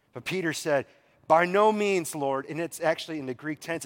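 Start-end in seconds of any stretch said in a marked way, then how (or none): 1.3-2.4 firm, louder protest; emphatic, raised-voice objection; emphatic refusal. Retold or imitated. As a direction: refuse outright, putting force behind it. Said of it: "it's very emphatic".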